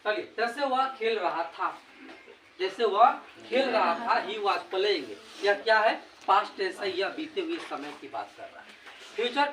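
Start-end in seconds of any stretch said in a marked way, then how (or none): 4.3-5.4 he was playing, stretched out word by word; very slow English model. Shown as a demonstration. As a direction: say "he was playing" slowly so students can follow. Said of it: "teacher models English slowly". (बहुत धीरे, शब्द-शब्द अलग करके)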